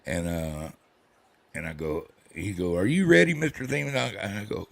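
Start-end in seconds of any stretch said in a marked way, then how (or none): 2.8-4.0 high-pitched mock doctor greeting; young doctor's question. Young doctor checks on his patient, retold in a high voice. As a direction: lift it high, imitating an eager doctor.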